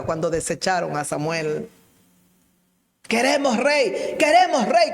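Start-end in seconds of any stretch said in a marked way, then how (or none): 3.0-4.9 rising, louder demand; people demanding. Retold or imitated. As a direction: chant it like an insistent crowd. (el pueblo exige un rey, cada vez más alto)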